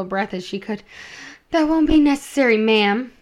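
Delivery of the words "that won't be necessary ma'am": higher, louder, quick reply; polite refusal slipping out too high and quick; forgetting to disguise the voice. A narrator's reading. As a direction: blurt it out high and loud before catching yourself. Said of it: "she then remembered to lower her voice".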